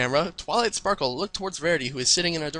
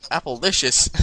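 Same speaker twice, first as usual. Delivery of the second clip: put-on Texan accent; 2 semitones lower, 4 dB louder than usual. Applejack talks to Dash about the apple trees, Texan accent. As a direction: read it as a Texan country pony. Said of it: "I can't read this with a Texan accent".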